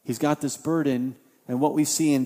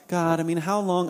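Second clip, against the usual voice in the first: casual complaint. Shown as a demonstration. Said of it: "not something where Habakkuk's just kind of like".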